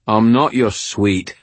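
put-on slow, pointed English-accented annoyance; annoyed. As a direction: bristle at the pet name, slowly. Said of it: "his voice annoyed".

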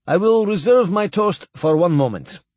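thick voice. Acted. Tipsy admiral addressing the banquet guests in a thick voice. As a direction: let the words sit thick from the vodka. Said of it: "he said thickly".

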